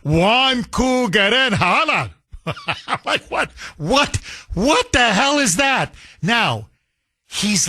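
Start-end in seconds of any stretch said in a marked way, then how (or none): 0.0-2.1 slow, halting attempt at the Somali words Waan Ku Geren Halan, each syllable sounded out; mock Somali phrase. Host mocking the mayor's Somali greeting, slow and halting. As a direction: sound out Waan Ku Geren Halan slowly like a foreign phrase you barely know. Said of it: "I have no idea what he's saying".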